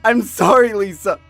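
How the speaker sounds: high, anguished apologies swelling into loud wails; desperate tearful pleading. Acted. Boyfriend apologizing as girlfriend faces the train, anguished begging. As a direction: beg forgiveness as if breaking down. Begging her not to die.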